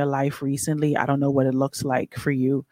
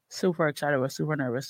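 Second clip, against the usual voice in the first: thirsty; 3 semitones lower, 11 dB quieter, faster than usual. Real, not acted. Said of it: "I thirsty".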